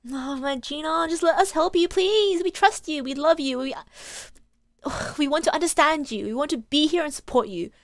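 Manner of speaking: a lightly voiced earnest young lawyer, pleading. Phoenix pleads with Gina to let him help, earnest.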